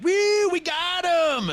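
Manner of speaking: high, loud drawn-out mock whoop; slow, whooping mock cheer; mock celebration. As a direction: imitate a crowd cheering in triumph. Mimicking people celebrating a bust.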